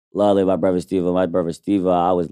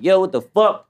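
excited; 11 semitones higher than usual. Retold or imitated. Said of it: "I'm like".

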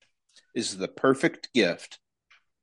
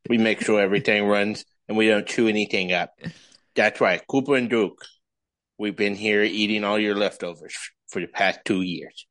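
Duke voice. Pretend. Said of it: "my Duke voice".

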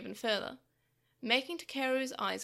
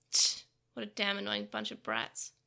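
disgusted sneer; 3 semitones lower than usual. Acted. Villain's disgusted aside.

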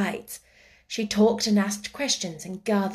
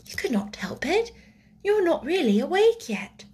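put-on higher, gentle girl's voice; friendly, kind; 6 semitones higher than usual. A narrator's reading. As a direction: gently let her off the blame. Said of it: "such a nice, friendly sound".

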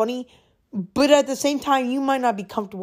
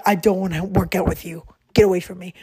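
cold, lower brush-off; harsh rejection; 4 semitones lower, faster than usual. Shown as a demonstration. Showing friends the wrong way to refuse, said coldly. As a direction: push the friend away with a curt, cold dismissal. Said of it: "don't say it like".

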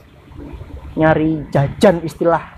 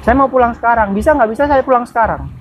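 higher, insistent refusal; retold defiant protest; 3 semitones higher than usual. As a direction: re-enact digging your heels in, pitch raised. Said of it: "Tapi saya berontak". (menirukan bantahan ngotot minta pulang)

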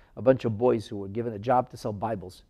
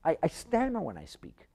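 stammering admission; 3 semitones higher, 9 dB quieter than usual. Acted. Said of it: "Moshe Rabbeinu said".

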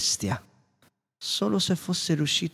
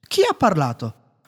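louder, alarmed question; startled exclamation; 5 semitones higher, 6 dB louder than usual. A narrator's reading. Maurice startled by a voice in the dark, louder. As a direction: jump at the unseen voice. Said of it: "esclamò Maurice".

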